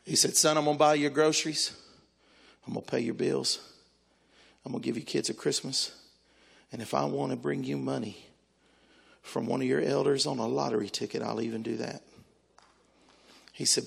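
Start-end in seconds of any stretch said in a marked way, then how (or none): 0.3-12.0 tag. Retold or imitated. God reassuring him, acted.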